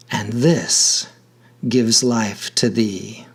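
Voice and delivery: measured sonnet reading with pauses between lines; poem recitation. Acted. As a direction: recite it as verse, unhurried, letting each line end settle.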